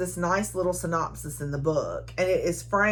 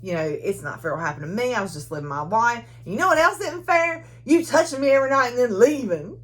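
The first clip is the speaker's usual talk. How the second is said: going off on him; faster than usual. Retold or imitated. Wife rips into her lover about the nights, rising to a yell. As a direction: let it boil over into a shout. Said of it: "she goes off on him".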